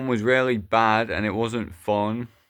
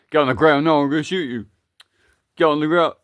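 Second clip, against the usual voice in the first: loud threatening command; 4 semitones higher, 5 dB louder, much faster than usual. Acted. Kidnapper threatens monkey.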